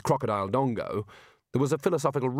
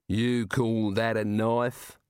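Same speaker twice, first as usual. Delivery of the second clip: enormous slow giant rumble; much slower than usual. Acted. Giant scoffs.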